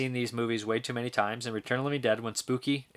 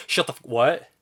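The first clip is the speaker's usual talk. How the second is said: louder command cut off into a question; imitated interrupted outburst; 5 dB louder than usual. Retelling the favorite Lebowski moment, imitated outburst. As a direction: break off the loud order to ask. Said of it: "and he's like".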